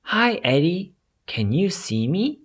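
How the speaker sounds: high, hushed little fairy, fading to a whisper; tiny fairy calling from nowhere, then whispering; small fairy voice. Acted. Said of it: "Eddie hears a small voice".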